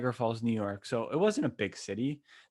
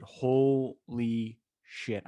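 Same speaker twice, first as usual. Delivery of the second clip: stunned awe; much slower than usual. Real, not acted. Awe at huge celebration.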